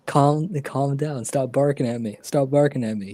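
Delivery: lightly voiced dog owner; mock calming a dog. Pretending to tell a barking dog off, lightly exasperated. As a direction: playfully settle an imaginary dog.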